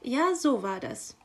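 guiltless magpie. Acted. Magpie answering the raven's reproach, innocently unaware. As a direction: confirm it without any guilt. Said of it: "war sich die Elster keiner Schuld bewusst".

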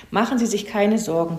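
lightly peeped, eager little bird; mild chirpy reassurance; helpful chirping. Acted. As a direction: pipe up readily to help. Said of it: "piepste Zwitschi hilfsbereit".

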